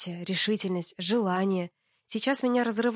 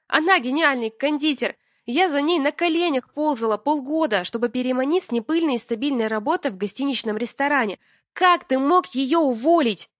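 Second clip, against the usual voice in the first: higher, louder furious scolding; furious yelling; 5 semitones higher, 5 dB louder than usual. Acted. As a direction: tear into him for firing her. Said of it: "Я орала на Мишу от души".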